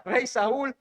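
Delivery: lightly acted calling out; mild imitated shout. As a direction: call out the question, without full volume. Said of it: "David le grita".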